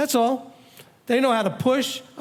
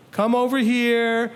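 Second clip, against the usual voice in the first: calm invitation; slower than usual. Shown as a demonstration. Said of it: "they need to feel that calmness".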